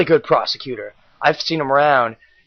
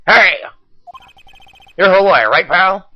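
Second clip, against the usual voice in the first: gangster cop; 3 semitones higher, 4 dB louder than usual. Acted. Voicing detective Gumshoe.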